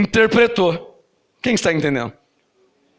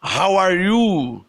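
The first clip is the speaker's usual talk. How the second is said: English greeting; 3 semitones lower, much slower than usual. Retold or imitated. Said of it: "a pessoa chegar aqui".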